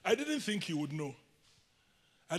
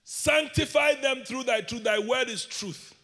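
proclaimed verse; 3 semitones higher, 3 dB louder than usual. Acted.

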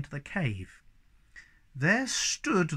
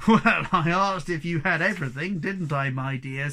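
virtuous; 5 dB louder than usual. Acted. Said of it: "said Moomin Papa virtuously".

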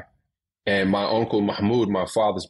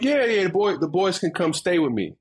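mom's high eager voice; 8 semitones higher than usual. Retold or imitated. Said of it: "she was like".

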